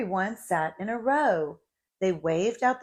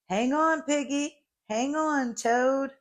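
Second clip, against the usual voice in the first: urgent warning; 7 semitones higher than usual. Acted. Warning riders of bumpy ride.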